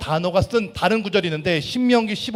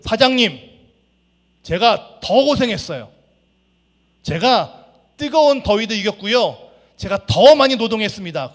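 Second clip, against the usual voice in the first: raised, higher aggrieved worker pleading his case; upset protest; 4 semitones higher, 7 dB louder than usual. Acted. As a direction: press hard on how much more he worked. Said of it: "화가 났습니다".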